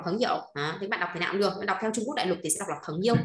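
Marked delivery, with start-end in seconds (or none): 0.0-0.4 "phấn hiểu" with a dipping tone on "hiểu"; Taiwanese reading. Shown as a demonstration. Teacher explains Taiwan usage, "hiểu" fully toned. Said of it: "người Đài Loan thì sẽ hay đọc là". 2.9-3.2 "phấn yêu" with the final tone dropped; mainland neutral tone. Shown as a demonstration. Teacher models mainland reading, "yêu" in neutral tone. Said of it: "Bỏ cái dấu đằng sau".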